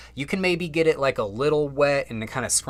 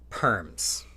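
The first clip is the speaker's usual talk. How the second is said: ordinary talk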